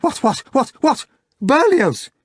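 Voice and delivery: high, startled cries rising to a shout; clamouring. A narrator's reading. Diners jumping up at the news, clamouring. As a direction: fire off shocked questions, then shout the name. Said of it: "And up they went, clamouring".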